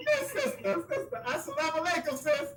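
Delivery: high, bright burst of delight at a guest arriving; excited greeting. Real, not acted. Host greeting his beloved sister with a delighted high welcome.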